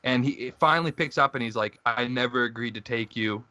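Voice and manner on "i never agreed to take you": put-on Eastern European accent. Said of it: "in, like, some Eastern European accent".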